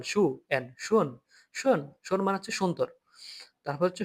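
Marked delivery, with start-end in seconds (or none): 0.0-1.8 শুন said slowly and carefully; pronunciation demo. Shown as a demonstration. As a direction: model শুন slowly for students. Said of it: "একদম normal". (ধীরে স্পষ্ট উচ্চারণে শুন)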